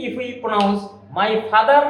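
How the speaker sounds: father said apart from is, slowly; said separately, slow. Shown as a demonstration. Teacher to students, saying the words separately and slowly. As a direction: pause before is, no linking.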